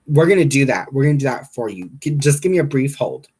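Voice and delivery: put-on phone-desk voice; placating receptionist. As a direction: imitate a hurried, placating call handler. Receptionist voiced in retold call.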